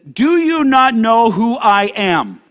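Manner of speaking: slow, weighty indignant question; pulling rank. Acted. Pilate questioning Jesus, slowly pulling rank. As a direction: stretch each word with self-importance.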